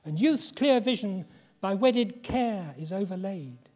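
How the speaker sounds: reading his mother's poem aloud, a wife's plea to her husband; earnest, tender poem recital with a lift on the pleas. Acted. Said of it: "Wife to husband".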